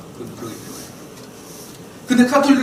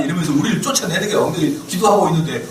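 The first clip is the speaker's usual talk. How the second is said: normal talking voice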